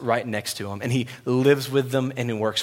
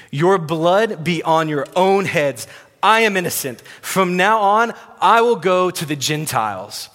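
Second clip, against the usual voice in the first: raised, loud voice of a man who's had it; acted upset, higher and louder; frustrated outburst; 5 semitones higher, 5 dB louder than usual. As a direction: declare it with forceful, fed-up finality. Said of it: "hear the frustration in his voice".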